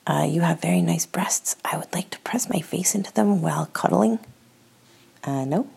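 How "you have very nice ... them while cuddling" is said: whisper. Retold or imitated. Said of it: "Here's a couple ways consent doesn't work".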